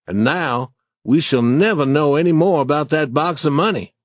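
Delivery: a hint of a worried boy; Huck. Huck sighs to Tom about the lost box, lightly voiced boy.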